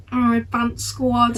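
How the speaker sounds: slow, sneering mock. Cadets teasing the other squad, slow sneering mock. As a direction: drag it out to tease them.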